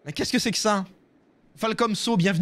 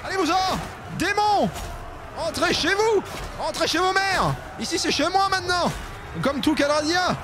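seigneur des ténèbres; 9 semitones higher than usual. Acted. Joue le conquérant qui menace.

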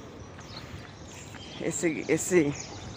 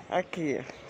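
ordinary delivery

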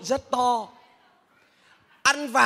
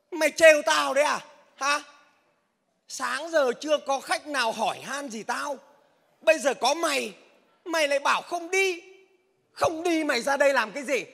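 hot-tempered; 3 semitones higher than usual. Acted. Driver scolding a customer who won't ride, hot-tempered. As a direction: snap back at him for wasting your time. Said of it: "Gì mà nóng thế?".

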